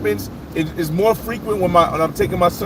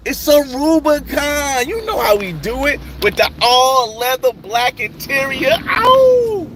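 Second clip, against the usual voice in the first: hyped bragging; 6 semitones higher, slower than usual. Real, not acted. Bragging about his Jeep.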